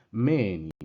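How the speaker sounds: Menin with the long E stressed on its first half, then falling; first-part accent. Shown as a demonstration. Teacher showing students the circumflex, first-part accent. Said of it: "la primera parte es la que está acentuada".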